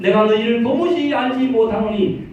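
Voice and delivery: loud, ringing sermon over music; preaching at full force. Acted. Pastor preaching scripture to the congregation with fervor.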